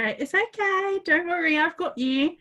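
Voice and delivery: high, gentle coo, as to a pet; calm the little creature; cooing reassurance. Retold or imitated. Comforting the spider at 3am, high cooing voice. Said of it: "So I go".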